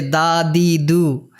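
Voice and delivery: "দা, দি, দু" with a soft Bengali দ, not English D; soft Bangla D. Shown as a demonstration. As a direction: say "দা, দি, দু" with a soft dental d. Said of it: "এটি বাংলা দর মতো". (বাংলা দ-এর মতো নরম "দা, দি, দু")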